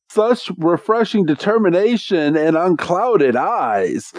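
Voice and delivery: a light hammed-up noble compliment; admiring knight. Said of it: "He's like".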